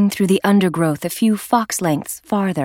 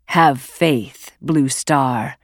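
gentle interruption; 3 semitones lower, much slower than usual. Acted. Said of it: "Lionheart interrupted gently".

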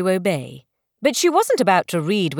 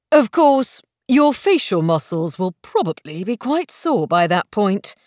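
an amused gentleman's lazy drawl. Acted. Stranger teasing the squinting girl, lazy amused drawl. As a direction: stretch it out, teasing and unhurried. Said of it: "drawled a voice from behind her".

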